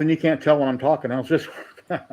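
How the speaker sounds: talking through a hand over the mouth. Real, not acted. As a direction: speak with your palm over your lips. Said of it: "I'll just put my hand over my mouth".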